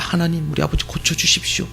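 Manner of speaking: earnest prayer. Retold or imitated. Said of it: "간절히 배에 손을 얹고 기도했습니다".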